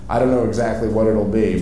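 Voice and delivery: normal talking voice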